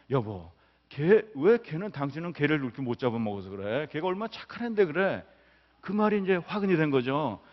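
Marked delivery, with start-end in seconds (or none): 0.1-5.2 exasperated husband. Retold or imitated. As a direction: imitate a husband who has had enough. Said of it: "듣다 듣다 못해서".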